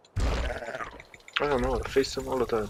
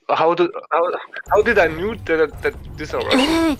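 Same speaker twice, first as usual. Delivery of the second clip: higher, louder, mock-baffled echo; amused echo of the question; 5 semitones higher, 4 dB louder than usual. Real, not acted. Streamer echoing a friend's question, amused and higher. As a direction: throw the question back, tickled by it.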